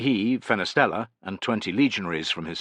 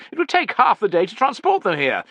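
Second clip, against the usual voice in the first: very high, loud haughty tirade; loud, worked-up commander; impatient cry; 13 semitones higher, 7 dB louder than usual. A narrator's reading. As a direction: overrule them at a raised pitch. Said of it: "cried Tubero".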